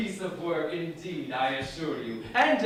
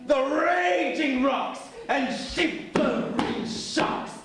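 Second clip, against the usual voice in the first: grand ranting tyrant; booming mock-heroic declamation; lofty tyrant verse. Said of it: "That was lofty".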